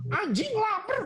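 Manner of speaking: high-pitched yelling like a tantrum.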